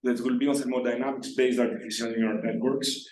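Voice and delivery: raspy, strained, worn-out voice; hoarse, losing voice. Real, not acted. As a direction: talk through a voice that's almost gone. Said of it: "we have no voice".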